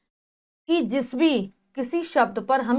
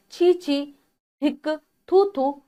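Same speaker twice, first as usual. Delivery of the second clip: disgusted exclamation; 3 semitones higher than usual. Shown as a demonstration. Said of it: "घृणा सूचक".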